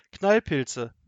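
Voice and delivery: loud exclamation of alarm; horrified cry. A narrator's reading. Grandmother realises it is poisoning, horrified cry. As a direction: cry out in sudden horror.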